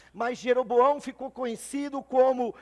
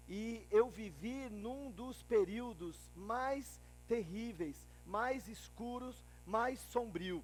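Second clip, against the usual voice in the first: much softer, grave storytelling; somber recollection; 14 dB quieter than usual. Acted. Recalls his nation's darkest times. (lembrança sombria, em voz baixa)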